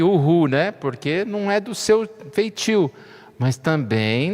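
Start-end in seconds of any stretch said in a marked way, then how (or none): 0.0-0.5 mock cheer. Shown as a demonstration. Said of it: "você chegar e ficar aqui".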